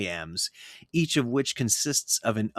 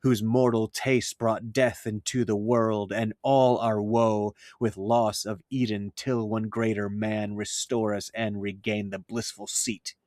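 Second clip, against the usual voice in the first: blank verse recitation. Shown as a demonstration. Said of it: "also known as Miltonic verse".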